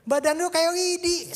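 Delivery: high loud laughing tease; father teases skinny son, high and laughing; laughing teasing. Retold or imitated. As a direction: tease him while laughing. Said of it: "saya bilang".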